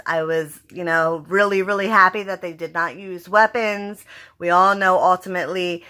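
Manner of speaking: ordinary talk, nothing marked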